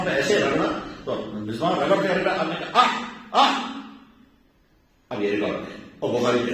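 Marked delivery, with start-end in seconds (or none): 2.8-3.8 slow, breathy imitated "aah, aah" of a tongue scraped by the miswak. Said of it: "آپ کی آواز نکل گئی".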